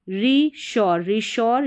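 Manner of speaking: रीश्योर with long "ree", then "shor"; demonstrated pronunciation. Shown as a demonstration. Teacher showing learners how to read रीश्योर, clear demonstration. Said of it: "इस तरीके से".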